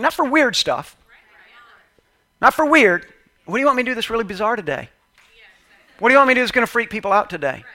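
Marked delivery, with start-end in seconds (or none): 3.5-7.6 mock prayer. Mocking the wrong prayer.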